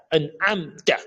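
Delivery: AN'AMTA with a thin open TA; correct light TA. Shown as a demonstration. Teacher correcting to into ta, light AN'AMTA. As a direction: finish AN'AMTA on a plain t and open a. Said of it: "c'est ta".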